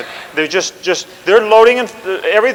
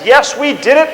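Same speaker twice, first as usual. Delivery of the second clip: higher, triumphant cry; a proud general celebrating the crossing; gleeful general; 6 semitones higher than usual. Retold or imitated. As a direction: crow over the victory. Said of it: "the General Bragg says".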